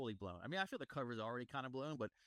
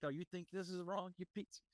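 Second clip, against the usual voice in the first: higher, mocking shipmaster voice; 7 semitones higher than usual. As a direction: sneer it up high at him. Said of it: "So he's like".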